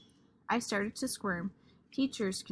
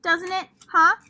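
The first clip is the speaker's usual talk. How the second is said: pushy excitement; 7 semitones higher, 9 dB louder than usual. Acted. Lucille pushing the class.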